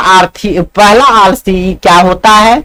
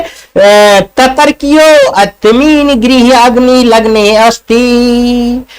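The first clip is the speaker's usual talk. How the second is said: drowsy lazy man; 3 semitones higher, slower than usual. Acted. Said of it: "यह कहता है".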